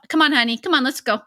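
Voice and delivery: lightly acted mom call; mom calling kids. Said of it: "I think I just started calling them".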